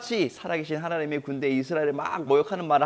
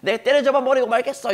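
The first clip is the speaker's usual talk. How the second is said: raised, fierce vow to strike the enemy down; defiant shout; 6 semitones higher, 4 dB louder than usual. Acted. David vowing to strike down Goliath, defiant shout. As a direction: shout it as a boy's bold vow. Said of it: "이런 식으로 막 이렇게 외치고".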